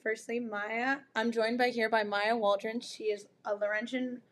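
raspy, worn-out voice after yelling; hoarse from screaming. Real, not acted. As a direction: talk through a hoarse, shredded throat. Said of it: "if I sound like I smoke sixty cigarettes a day".

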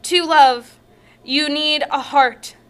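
earnest poem recital; dramatic poem read. Acted. Reads poem aloud.

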